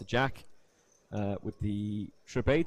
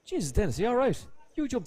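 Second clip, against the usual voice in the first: worried onlooker; 10 semitones higher than usual. Retold or imitated. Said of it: "the reaction he got was".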